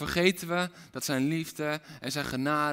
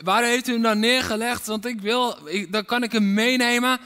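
higher, louder pleading of a weeping Mary; tearful Mary; 7 semitones higher, 7 dB louder than usual. Acted. Mary begging the gardener for the body, tearful and raised. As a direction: plead like a grieving woman searching. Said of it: "die was huilend".

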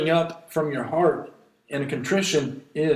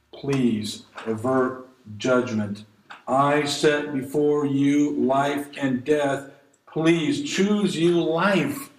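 slow, tender pleading; pleading voice of God; much slower than usual. Retold or imitated. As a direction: beg them gently to choose life. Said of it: "God is pleading".

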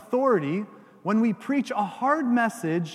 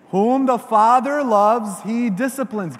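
preacher leading the verse aloud; loud recitation; 2 semitones higher, 6 dB louder than usual. Shown as a demonstration. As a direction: proclaim it for all to repeat. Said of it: "say this with me".

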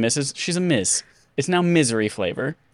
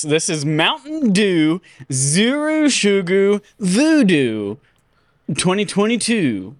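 mock announcer; 3 semitones higher, slower than usual. Announcing product name.

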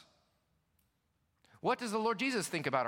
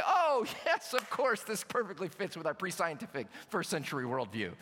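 mock sarcastic disciples; 3 dB louder than usual. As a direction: ham up a smug "of course". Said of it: "they say".

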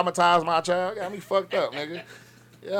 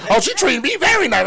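put-on higher, sweet little girl voice; mock child reply; 7 semitones higher, 3 dB louder than usual. Daughter reporting the teacher, lightly voiced higher child. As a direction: answer brightly like a young daughter.

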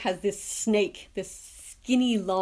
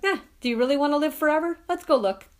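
higher, fast and louder, a reckless dare; eager dare; 6 semitones higher, 4 dB louder, faster than usual. Retold or imitated. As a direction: rush it out like an eager thrill-seeker. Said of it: "she's like".

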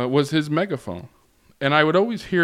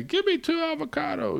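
high-pitched mock holler; imitated yell back. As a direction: call out an order from an apartment. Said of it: "yell back and say".

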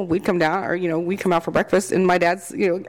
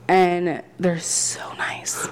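whisper; much slower than usual. Real, not acted. Whispered praise.

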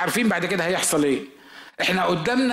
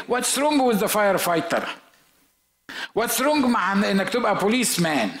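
mock American kid; 3 semitones higher than usual. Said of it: "يقول لك". (الابن يرد على أبوه بسخرية بلكنة أمريكية بطيئة)

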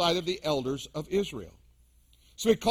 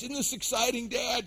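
put-on excited boys; 4 semitones higher, 3 dB quieter than usual. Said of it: "The boys".

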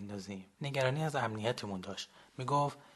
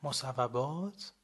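slow, mock-formal teasing question; ironic question; much slower than usual. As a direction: drag it out with irony. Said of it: "با کنایه پرسید".

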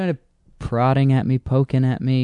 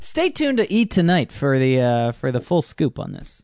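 mock E! promo. Mock E! news sign-off.

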